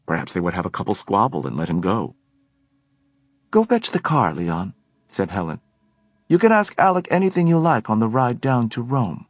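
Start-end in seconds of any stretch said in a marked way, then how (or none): 3.5-9.3 higher bossy woman's voice; Helen, commanding. A narrator's reading. Helen ordering Leon to fetch the car, commanding. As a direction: order him off briskly.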